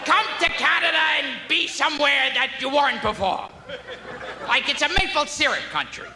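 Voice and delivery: a hint of a squawking comedian; Gilbert Gottfried impression. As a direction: rant about Canada like a cranky comic. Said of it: "every time Gilbert Gottfried's performs".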